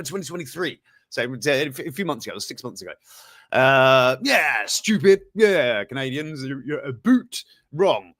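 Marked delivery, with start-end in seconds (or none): 4.2-8.1 lightly put-on Canadian accent; mock-Canadian accent with drawn-out words. Host teasing Canadians over the asteroid story, mock Canadian accent. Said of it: "That's my Canadian accent".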